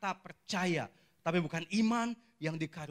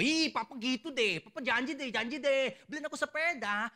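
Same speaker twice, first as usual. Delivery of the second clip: put-on whiny child; 8 semitones higher than usual. Boy reminding his papa of the bike promise, whiny.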